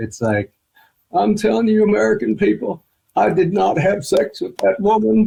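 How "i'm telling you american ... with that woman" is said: very high, slow, creaky, hoarse, raspy voice. Showing the one impersonation they can do: Bill Clinton impression. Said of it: "I can only do one impersonation".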